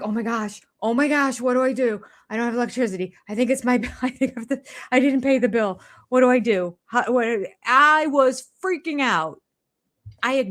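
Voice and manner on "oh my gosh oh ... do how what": mock panicked rambling, a bit higher; retold panic. Retelling her power outage panic, mild mock panic. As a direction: replay the freak-out at home alone. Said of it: "I'm like".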